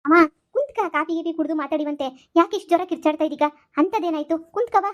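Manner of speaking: high, loud urging to sit down; urgent pleading. Acted. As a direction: hurry to calm her mother down. Daughter calms her shouting mother. (ಏರಿದ ಧ್ವನಿಯಲ್ಲಿ ಅಮ್ಮನನ್ನು ಸಮಾಧಾನಿಸುವುದು)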